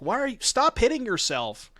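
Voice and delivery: mock big-brother taunt; mock playground taunt. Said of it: "this is like the classic".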